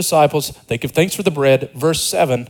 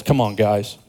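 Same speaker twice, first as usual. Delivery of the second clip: exasperated disciples; 4 semitones lower, 4 dB quieter than usual. Retold or imitated. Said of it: "a negative perspective on the disciples".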